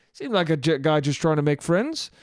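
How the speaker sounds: put-on rough Irish accent with rising ending; light mock Irish lilt. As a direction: imitate an Irish bartender. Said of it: "that's an Irish accent".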